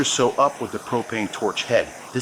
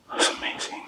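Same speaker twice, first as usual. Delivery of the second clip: whisper; 7 dB quieter than usual. Real, not acted. Awed aside over the pour.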